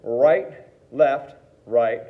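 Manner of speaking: steady counted calls in time; teacher counting along with students; calling the sticking. Shown as a demonstration. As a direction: call each stroke on the beat. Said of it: "I'll try to mirror it with you".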